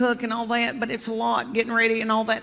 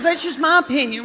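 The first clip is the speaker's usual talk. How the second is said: prim repeat of the line, higher; imitating Gail, higher; 5 semitones higher than usual. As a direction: say it again in the mother-in-law's little voice. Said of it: "She goes".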